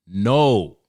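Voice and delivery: a sharp, loud no. Acted. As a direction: shut the customer down. Ranting at annoying customers.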